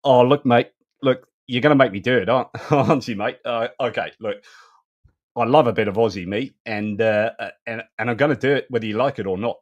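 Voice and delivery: playful put-on Australian accent. Presenter jokingly giving in to listeners, in a put-on Australian accent. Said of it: "do my Australian accent".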